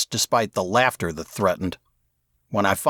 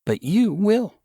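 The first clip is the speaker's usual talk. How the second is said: put-on lightly raised young girl voice; 5 semitones higher than usual. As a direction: play Mary a touch higher and brighter. Mary's lines in story.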